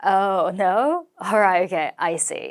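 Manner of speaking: feigned awkward, embarrassed manner. Demonstrating a reaction when a discount is refused, acting awkwardly embarrassed. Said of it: "좀 민망한 척 연기를 해볼게요".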